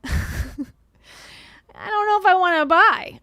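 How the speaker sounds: high, slow laughing disbelief; laughing doubt. Real, not acted. Streamer laughing at a sad-looking salesman.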